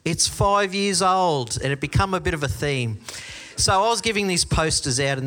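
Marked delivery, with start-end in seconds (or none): 0.0-1.6 higher, slow mock chorus of kids; kids' catchphrase. Kids echoing the camp's running joke, drawn-out catchphrase. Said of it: "kids would go".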